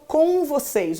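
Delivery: slow, drawn "com vocês"; drawn-out Portuguese com. Shown as a demonstration. Teacher showing students how Brazilians say "com vocês", drawn-out nasal com. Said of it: "quando eu falo com vocês".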